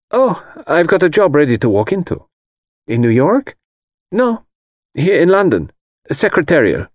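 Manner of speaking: put-on a confident young Swede shrugging it off; Greta's voice. Greta's voice in dialogue.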